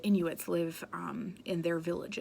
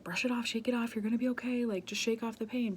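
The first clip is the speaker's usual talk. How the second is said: higher-pitched mock pep talk; brisk reassuring adult; 5 semitones higher, faster than usual. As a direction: imitate a grown-up brushing off a child's fall. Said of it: "when kids fall down or hurt themselves".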